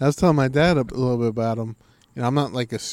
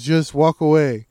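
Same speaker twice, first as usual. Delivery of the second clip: louder, slow, emphatic; loud slow advice; 3 semitones higher, 6 dB louder, slower than usual. Retold or imitated. Fighter telling viewers to walk away, loud and slow. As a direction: lay it down slowly and loud. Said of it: "He goes".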